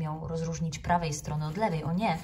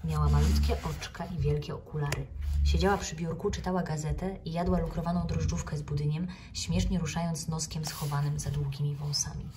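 plain reading voice

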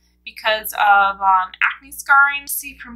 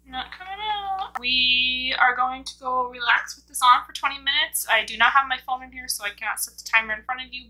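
mask clinging to lips; speaking through sheet mask. Real, not acted. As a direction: mouth edges covered by mask. Seen 1: Sheet mask covers whole face throughout; removed around 24.3s.

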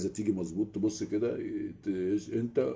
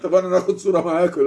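laughing question; 8 semitones higher, 9 dB louder than usual. Retold or imitated. Asking photo while laughing.

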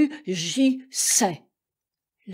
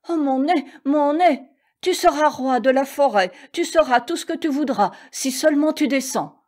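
lion in distress; 5 semitones higher, 4 dB louder than usual. A narrator's reading. Lion begs with gnat in nose.

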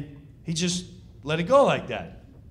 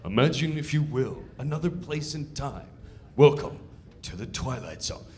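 Twilight Zone narrator; 4 semitones lower than usual. Retold or imitated. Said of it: "the sketch is like".

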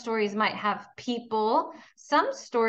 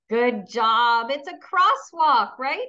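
louder, rising praise for the answer; cheerful praise; 5 dB louder than usual. Acted. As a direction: celebrate the right answer.

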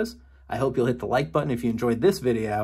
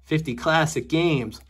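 slow, savoring announcer read; drawn-out title read; 4 semitones higher, slower than usual. Pretend. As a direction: stretch out "Fifty classic games" slowly. Reading game title drawn out.

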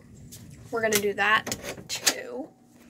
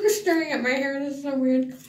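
while brushing teeth; 4 semitones higher than usual. Real, not acted. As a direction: mouth full of toothbrush. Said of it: "I'm not really talking 'cause I'm brushing my teeth".

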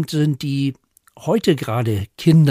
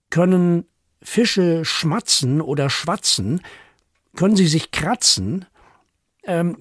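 higher, curious rhyming questions; playful question poem; 5 semitones higher than usual. A narrator's reading. Poet asks children absurd animal questions, playfully puzzled recital. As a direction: pose each silly question as if puzzled.

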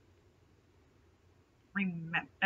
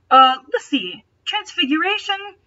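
lightly voiced shy girl, pitched higher; girly new student voice; 6 semitones higher, 5 dB louder than usual. Rachel chats up Draco at the table, higher girly voice. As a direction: chirp it up like a nervous newcomer. Rachel lists her classes.

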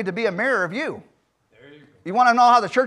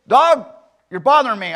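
high, loud first word, easing off; fed up, loudly scolding a pet; mad outburst; 3 semitones higher, 6 dB louder than usual. Acted. Miner to his faithful dog keeping him awake, mad. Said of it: "he just got mad".

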